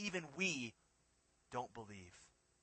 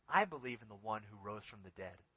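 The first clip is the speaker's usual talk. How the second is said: put-on softer and lower, a child's simple innocent answer; innocent little girl; 5 semitones lower, 6 dB quieter than usual. Little girl answering the man, softly and innocently. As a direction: say it plainly and trustingly, like a little girl. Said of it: "very innocently looked up to the man and said".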